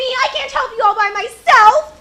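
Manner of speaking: tearful and desperate; crying. Acted. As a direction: near tears, begging for help. Girl desperate alone.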